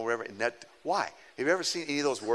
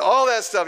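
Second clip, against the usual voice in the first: high, loud "All that stuff"; emphatic repeat; 7 semitones higher, 7 dB louder than usual. Retold or imitated. Pastor repeating the email's contents to the congregation, loud and emphatic. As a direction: punch the whole phrase. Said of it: "He said".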